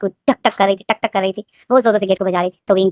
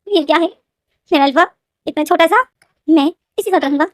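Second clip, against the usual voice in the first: lightly raised, sulky inner complaint; disappointed Wing; 3 semitones higher than usual. Acted. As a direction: grumble to yourself about the tiny alpha. Wing's inner grumbling voiced. (निराश विंग की हल्की शिकायत)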